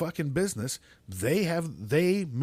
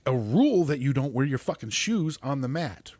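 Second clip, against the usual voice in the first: ordinary talk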